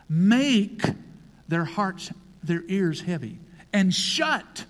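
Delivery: loud, punched proclamation of the verse; forceful scripture reading. Acted. Preacher thundering the prophecy at the congregation. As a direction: declaim it like a prophet.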